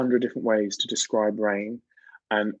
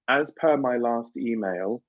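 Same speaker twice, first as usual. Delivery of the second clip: drawn out slowly, each word spaced; slow, pointed work email; slow pointed email line; slower than usual. Shown as a demonstration. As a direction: read it slowly like a pointed reminder. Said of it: "it's, like, sassy".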